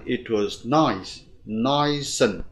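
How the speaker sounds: "it was nice" joined up, "nice" drawn out; slow linking demo of "nice and"; linked sounds. Shown as a demonstration. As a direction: run "nice" into "and". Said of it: "luyến sang".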